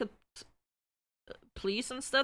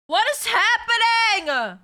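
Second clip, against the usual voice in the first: loud, high, slow cry of disbelief; bewildered; 10 semitones higher, 6 dB louder than usual. Real, not acted. Streamer baffled as the app closes on her again. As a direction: throw up your hands in confusion.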